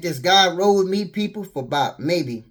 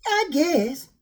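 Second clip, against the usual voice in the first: bored reply; 9 semitones higher than usual. Retold or imitated. Bored reply to bedroom offer.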